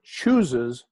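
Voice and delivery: "chooses" drawn out slowly; stress on "chooses". Shown as a demonstration. Speaker underlining the hero's free choice, stress on "chooses". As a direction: lean deliberately on the word "chooses". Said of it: "and I emphasize this word".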